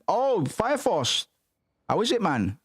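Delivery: high, slow excited coo; delighted squeal. Real, not acted. Gamer spotting Fire Force, delighted high coo. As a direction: coo the title with glee.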